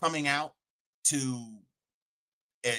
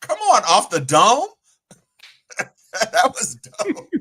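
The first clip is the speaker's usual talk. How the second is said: loud, hyped-up cheer; excited; 9 semitones higher, 10 dB louder than usual. Real, not acted. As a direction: cheer her on loudly. Hyped reaction to freestyle.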